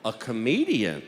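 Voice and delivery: questioning echo with a sudden pitch jump; incredulous judge. Acted. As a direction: repeat it in open disbelief. Judge repeats it in disbelief.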